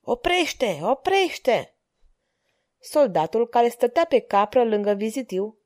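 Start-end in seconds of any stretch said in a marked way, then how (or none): 0.0-1.8 mild shout. A narrator's reading. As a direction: call out a restrained "stop". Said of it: "Filip strigă".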